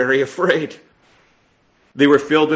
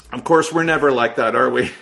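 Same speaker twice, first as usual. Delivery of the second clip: sarcastic. Real, not acted. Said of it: "I say that sarcastically".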